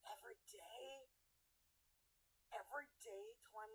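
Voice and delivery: breathless whisper of disbelief; unvoiced horrified whisper; whispered dismay. Real, not acted. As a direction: hush it, stunned at the thought. Dismayed at working every day.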